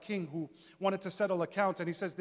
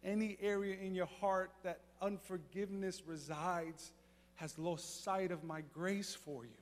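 softer, gentle voice of God speaking close; tender whisper; 7 dB quieter than usual. Retold or imitated. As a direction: lay it in his ear lovingly and quietly. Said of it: "so lovingly and tenderly whispered in my ear".

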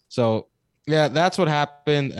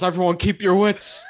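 higher, half-laughing call to stay calm; mock rallying yell; 6 semitones higher, 4 dB louder than usual. Brother rallies the group against the bear, laughing mock yell. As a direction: brother holding a burning stick, imitated yell through laughter. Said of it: "And he yells".

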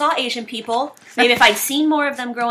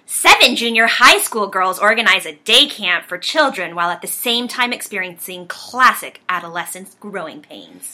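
louder, grand movie-trailer read; booming trailer announcer; dramatic reading; 4 dB louder than usual. Shown as a demonstration. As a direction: read it like an epic trailer voice-over. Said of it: "I'm gonna do it in a different style".

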